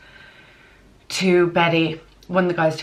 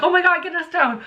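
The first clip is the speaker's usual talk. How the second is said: mock panic; 11 semitones higher than usual. Panicked in the lift.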